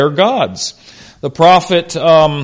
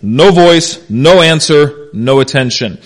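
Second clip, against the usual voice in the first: "no voice, no answer, no attention" as three separate, weighted beats; emphatic threefold no; slower than usual. Shown as a demonstration. Preacher underlining the threefold statement, "no voice, no answer, no attention" spaced emphatically. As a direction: land each "no" phrase, then pause. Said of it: "It's a very emphatic thing".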